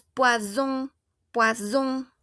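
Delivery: "poison" as pwa-ZON, with buzzing z; French "poison", single S buzzed as z; vibrating Z. Shown as a demonstration. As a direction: say "poison" with a voiced z in the middle. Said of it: "este que es medio vibrante".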